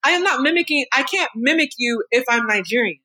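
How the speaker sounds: a daughter refusing the charge of mimicking, indignant; indignant protest. Real, not acted. Defending herself against mom's accusation.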